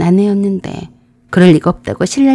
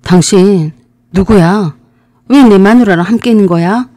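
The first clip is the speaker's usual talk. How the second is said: retelling his shout, louder, pitch rising at the end; loud demand; 4 dB louder than usual. Retold or imitated. Husband demands to know who the man is, shouting. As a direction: confront the stranger loudly. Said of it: "큰 소리로 물었습니다".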